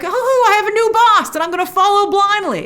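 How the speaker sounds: high, mocking impression of a gullible follower; lightly voiced mock follower; mocking quote. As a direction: sneer it like a naive convert. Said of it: "He's like".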